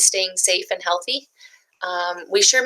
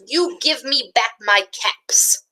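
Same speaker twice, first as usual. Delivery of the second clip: scolding peddler; 3 semitones higher, slower than usual. Acted. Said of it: "he said, shaking a finger".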